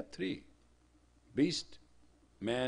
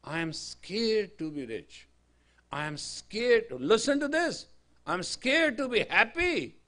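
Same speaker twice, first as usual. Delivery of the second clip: retold anguished confession; 9 semitones higher, 11 dB louder than usual. Rich man confessing fear.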